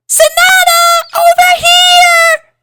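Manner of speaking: very high, loud shout across the gym; calling out. A narrator's reading. Pinky calling a friend across the gym, very high loud shout. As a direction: call her over, slow and shrill-high. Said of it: "Pinky called to her".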